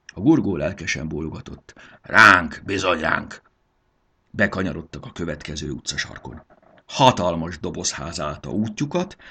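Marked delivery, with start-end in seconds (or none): 2.0-3.4 keen loud then settling; eager agreement. A narrator's reading. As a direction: nod along eagerly. (lelkes, hangos helyeslés)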